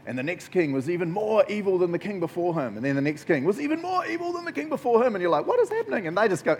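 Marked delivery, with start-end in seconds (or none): 0.1-5.1 droning recital climbing much higher the second time; mock Bible narration. Preacher parodies repetitive Bible history to the congregation, mock recital. 5.5-6.1 high-pitched bewildered outburst; baffled reader. Acted. Preacher voices a reader baffled by evil kings, mock disbelief.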